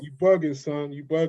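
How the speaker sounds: imitated New York slang accent. London guest echoing the host's line, imitated New York accent. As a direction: echo it back as a mock New Yorker. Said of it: "since you do New York".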